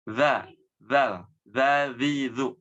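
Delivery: Za zal za zi zu with tongue tip between teeth; dzal drill. Shown as a demonstration. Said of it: "ujung lidah kita sedikit".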